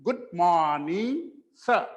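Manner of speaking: Good morning, sir, stretched slowly; slow model phrase. Shown as a demonstration. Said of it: "sentence पूरा कैसे बनेगा". (धीमा, स्पष्ट उच्चारण)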